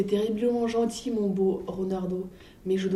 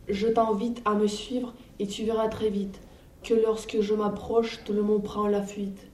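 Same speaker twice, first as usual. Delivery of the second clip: lightly voiced mouse, bold and bragging; boastful mouse. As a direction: puff yourself up to scare the monster.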